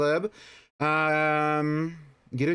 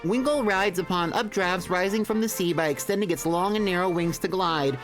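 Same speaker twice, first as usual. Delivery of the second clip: Pokedex voice; 5 semitones higher than usual. Pretend. Reading Pokedex entry aloud.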